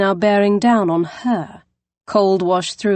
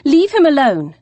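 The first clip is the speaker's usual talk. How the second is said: high, loud demand; shout; 7 semitones higher, 5 dB louder than usual. Acted. Poppy yelling at the man to leave him alone. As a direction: shout to make him stop.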